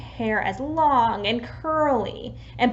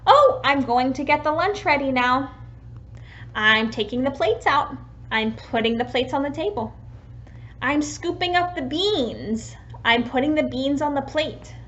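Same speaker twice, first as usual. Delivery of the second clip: put-on narrating for a child; 2 semitones higher than usual. Shown as a demonstration. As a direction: talk a child through lunch prep. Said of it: "For example".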